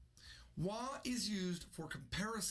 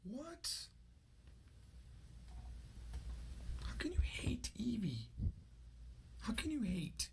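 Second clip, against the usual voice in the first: mock disbelief; 5 semitones higher, slower than usual. Mock outrage at hating Pokemon.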